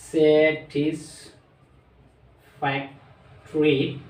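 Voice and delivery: very slow, each of the four syllables of স্যাটিসফ্যাক্টরি pulled apart. Shown as a demonstration. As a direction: stretch স্যাটিসফ্যাক্টরি out for the class, ending on a rise. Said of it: "চারবার উচ্চারণ করা হয়". (স্যাটিসফ্যাক্টরি খুব ধীরে ভেঙে ভেঙে)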